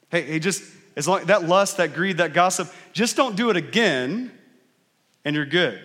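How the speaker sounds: hammed-up warning with strings attached; mock conditional forgiveness. Imagined God forgiving sins on condition, mock insistent.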